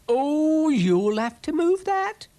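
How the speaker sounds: high, slow squeaky snail. Acted. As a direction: voice Brian the snail high and drawn out. Snail Brian voiced in story.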